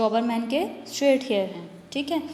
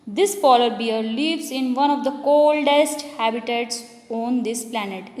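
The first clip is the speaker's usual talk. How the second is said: slow example reading; much slower than usual. Shown as a demonstration. Reads example sentence to class.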